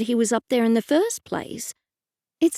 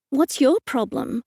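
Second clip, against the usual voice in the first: talking through a mouthful of food; mouth full; 3 semitones higher than usual. Acted. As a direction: snap with a mouthful. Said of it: "I said through a mouthful of crumbs".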